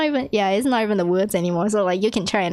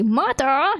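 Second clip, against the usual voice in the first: higher-pitched, indignant question; mock super-angry; 6 semitones higher than usual. Visitor losing patience at the door, acted anger. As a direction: act exasperated with a raised pitch. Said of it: "he got, like, super angry".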